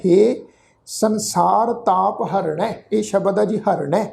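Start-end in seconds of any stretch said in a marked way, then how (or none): 0.1-2.7 slow, measured repeat of the verse; scripture recitation. Shown as a demonstration. Teacher repeats the line to explain it, slow recitation. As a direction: recite slowly, a break after the first word. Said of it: "ਪਾਠ ਉਚਾਰਨ ਕੀਤਾ ਹੈ".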